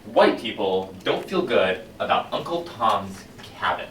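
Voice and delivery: a zealous fire chief, swinging from hushed to loud; commanding book-burning fire captain; fiery fire captain. Acted. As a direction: preach the burning of books like a fanatic. Performs Beatty's monologue opening.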